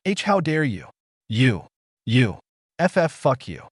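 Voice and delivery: stammering, teary angry shout; tearful yell. A narrator's reading. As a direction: yell it while close to tears. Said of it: "Midna yelled with watering eyes".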